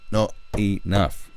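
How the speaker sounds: drawn out, each word weighted; slow it down for emphasis; slow, deliberate repeat; slow emphatic repeat. Real, not acted.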